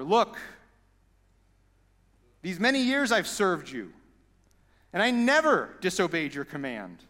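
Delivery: a touch of bitter complaint, read from the verse; aggrieved son. Retold or imitated. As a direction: list his grievances with mild resentment. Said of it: "he answered his father".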